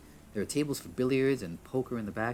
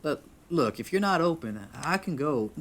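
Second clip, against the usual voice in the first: raised, higher voice toward the back room; calling out; 6 semitones higher, 6 dB louder, slower than usual. Acted. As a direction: call out an offer to leave. Calling to unseen bartender.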